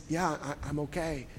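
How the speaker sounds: retelling her soft, faint reply. Retold or imitated. Homeless mother answering the pastor at night, softly. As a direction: let it fall almost to nothing, gently. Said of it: "turns around in a soft voice and says".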